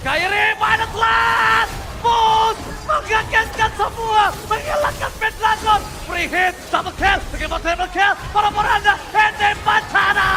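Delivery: slow, drawn-out hype shouting; fighting game announcer. Real, not acted. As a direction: belt out each kill like an arena announcer. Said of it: "fighting game announcer, triple kill hype".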